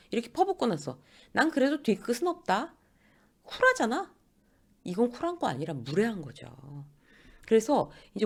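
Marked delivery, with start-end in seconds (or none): 1.3-4.1 high-pitched, mock-cool boast; self-satisfied. Senior shrugs off the outburst afterwards, self-satisfied. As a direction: act pleased with your own bluntness.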